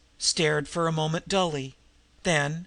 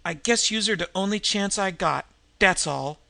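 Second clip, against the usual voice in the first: a tough woman giving in, louder; grudging admission; 3 semitones higher, 4 dB louder than usual. Acted. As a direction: admit it gruffly, hiding fear. Nan admits need after choking.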